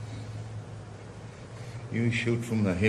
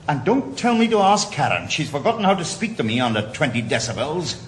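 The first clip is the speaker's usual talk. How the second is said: sharp and higher, louder; bitter outburst; 5 semitones higher, 3 dB louder than usual. Acted. Father venting to the doctor about Karen, bitter. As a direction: spit out the jab at his ex.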